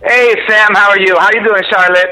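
speakerphone sound, roomy and thin. Real, not acted. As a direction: voice over a phone speaker. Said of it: "Max, are you on a speakerphone?".

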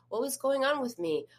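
wondering inner voice; curious voice. Shown as a demonstration. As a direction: ask yourself with open curiosity, no criticism. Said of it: "Be curious, not critical".

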